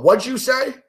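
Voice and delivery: high-pitched retold challenge; confrontational demand. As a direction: call someone out on a muttered insult. Retold confrontation after an insult.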